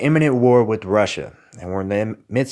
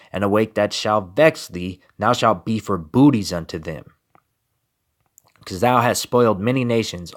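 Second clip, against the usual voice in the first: firm, slightly raised preaching recital; forceful scripture reading. Acted. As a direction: declaim the prophecy as a warning. Reads scripture louder.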